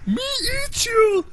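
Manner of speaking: high, loud, hammed-up Russian accent; angry Russian. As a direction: shout it like a cartoon Russian brute. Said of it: "sound like an angry Russian".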